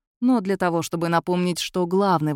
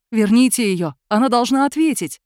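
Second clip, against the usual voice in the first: angry demand; 4 semitones higher, 6 dB louder than usual. A narrator's reading. Furious guest demands wife back.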